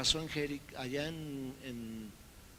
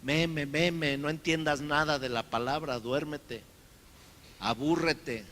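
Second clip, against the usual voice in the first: louder coaxing devil voice; devil lulling; 3 semitones higher, 8 dB louder than usual. Retold or imitated. The devil urges the reader to sleep, coaxing. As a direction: tempt the listener to doze off. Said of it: "Hasta el diablo te hace".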